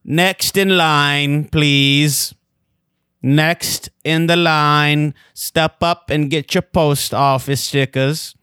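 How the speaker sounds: clipped, bored clerk calling out; snippy clerk voice. Pretend. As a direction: call the next customer like a fed-up clerk. Post office clerk role-play.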